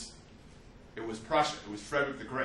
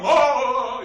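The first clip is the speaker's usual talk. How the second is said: laugh; 11 semitones higher, 16 dB louder than usual. Real, not acted. Laughs at own story.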